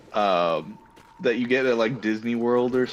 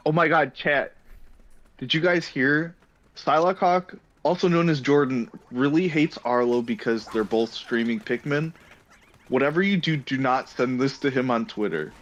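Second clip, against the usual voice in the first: clickbait voice. Pretend. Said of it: "give us your best clickbait voice".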